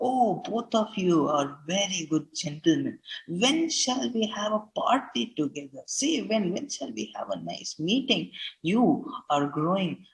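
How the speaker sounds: lively paraphrase of Bassanio. Shown as a demonstration. Teacher voicing Bassanio to his friends, eager and lively. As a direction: coax old friends to a party.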